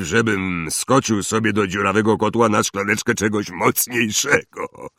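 Hagrid. Acted. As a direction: play the big gamekeeper feeling unwell. Hagrid voiced in read story. (głos Hagrida, lekko zmęczony)

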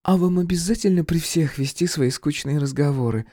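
barge in impatiently; voiced brunette Viktoria. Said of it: "бесцеремонно вмешалась брюнетка".

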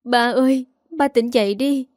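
a crying plea to her dead father; begging through tears, voice cracking at the end; tearful plea. Acted. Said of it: "cô gào khóc". (van xin ba trong nước mắt)

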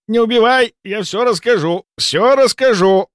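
high frightened begging; pleading. A narrator's reading. Malkov begging the narrator not to kill him, high frightened plea. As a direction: beg for your life. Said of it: "взмолился он".

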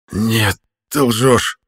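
squeezed out, very slow, through a choked throat; forced out. A narrator's reading. Choked prisoner denies it, strained and slow. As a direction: push the words past his grip. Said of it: "выдавил я".

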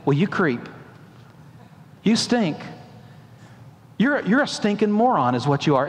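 sneering insult in a put-on voice; mock harsh God. Preacher voicing an imagined God insulting Jacob, mock scornful. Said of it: "God didn't say".

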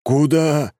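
surprised voices. Acted. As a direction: several men blurt it out at once. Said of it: "удивлённых голосов".

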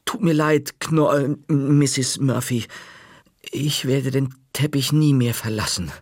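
nervous apology. Acted. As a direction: stumble over the nickname, scared.

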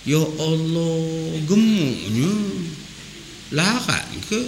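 mock gossip. Gossip mocking the fat groom.

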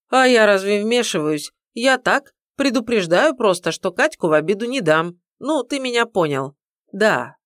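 meddling mother laying down the law; pushy older woman. Acted. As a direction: warn him off, bossy and loud. Mother-in-law threatens on phone.

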